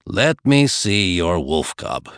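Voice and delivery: a slow, low, ominous demand; darkly. Acted. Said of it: "he said darkly".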